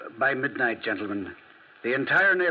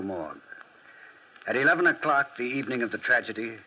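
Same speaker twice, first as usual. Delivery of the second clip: radio narration. A narrator's reading. Narrator introducing the gendarme's evening, measured storytelling.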